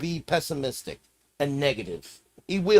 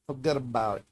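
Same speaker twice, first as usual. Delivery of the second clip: "Forget about it" in a New York accent; 4 semitones lower, 4 dB quieter, faster than usual. Shown as a demonstration. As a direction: run "Forget about it" together like a New Yorker. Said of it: "say it like you're from New York".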